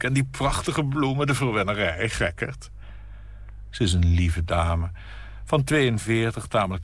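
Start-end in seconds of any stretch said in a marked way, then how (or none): 0.0-2.7 high, fluttery lady's voice; gushing hostess. Acted. Nina welcoming her friend at the door, gushing. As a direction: coo over the flowers like a sweet hostess.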